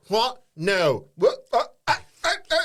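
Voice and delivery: put-on loud, high, staggering drunk babble; drunken politician. Mocking a politician lurching about in Parliament, drunken babble. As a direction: lurch through it like the town drunk. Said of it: "falling about in the Parliament going".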